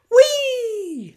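"Wee!" squealed very high and very loud, all out; full gleeful wee. Shown as a demonstration. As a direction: let the "Wee!" fly like on a rollercoaster. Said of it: "That was more like it".

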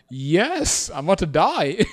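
half-laugh the fake terror; giggling fake dread; laughing mock panic. Retells fear while laughing.

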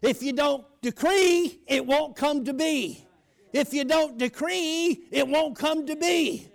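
slow, weighty preacher's repetition; slow preaching refrain. Real, not acted. Preacher warning the congregation, slow emphatic refrain. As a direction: drive the point home, word by word.

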